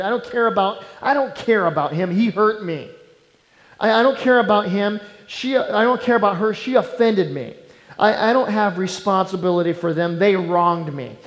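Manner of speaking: bitter, uncaring attitude. Acted. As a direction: push every grievance away like a wronged man. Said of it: "He had kind of an attitude".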